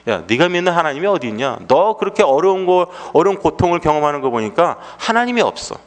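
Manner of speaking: mock interrogation of a believer; confrontational challenge. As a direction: imitate an accusing skeptic, pressing the point. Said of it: "이렇게 따집니다".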